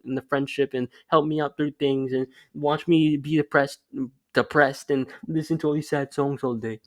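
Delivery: mock-whiny old self dumping problems on his crush; whiny self-pity. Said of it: "I used to tell her all my problems".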